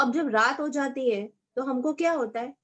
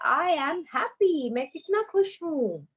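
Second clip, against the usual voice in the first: happy voice; 4 semitones higher, slower than usual. Shown as a demonstration. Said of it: "हमारी इसी तरह से आवाज निकलती".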